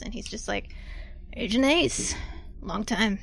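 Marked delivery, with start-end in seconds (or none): 1.3-3.2 deep sultry voice. Acted. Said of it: "a deep, sultry man's voice answers".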